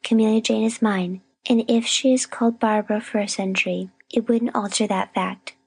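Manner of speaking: grim indignation. A narrator's reading. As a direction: insist grimly, scorning the rival's name. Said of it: "said Miss Rosetta grimly".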